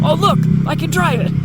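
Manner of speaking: put-on high excited kid voice; Colby's voice. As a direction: squeal it like an eager kid. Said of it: "He's all".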